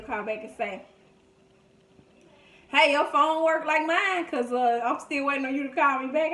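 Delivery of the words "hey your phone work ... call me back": teasing dad. Retold or imitated. Dad teasing about unreturned call.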